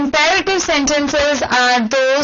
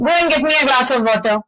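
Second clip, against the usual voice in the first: blunt order, a bit firmer; bossy command; faster than usual. Shown as a demonstration. Teacher shows the rude way to ask for water, blunt. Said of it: "you cannot say".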